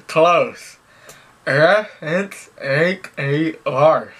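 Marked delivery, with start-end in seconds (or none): 1.4-4.1 slower through a mouthguard. Real, not acted. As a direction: repeat it slowly through a mouth guard. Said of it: "gonna go in my mouth".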